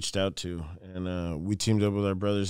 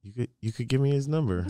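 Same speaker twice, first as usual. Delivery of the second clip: quick imitated British request; British accent; 2 semitones higher, faster than usual. British people asking the visitor for a contact, imitated British accent. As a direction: slip lightly into a Brit's accent, hurried. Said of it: "you got a pretty good accent there".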